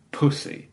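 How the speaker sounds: "Pussy" with a fronted OO; girlfriend's Scottish vowel. Retold or imitated. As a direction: stretch "Pussy" in imitated Scottish. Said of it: "she pronounces the".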